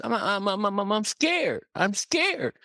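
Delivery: high, stammering scared chick; acted frightened stutter; shaking with fear. A narrator's reading. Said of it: "And he started shaking".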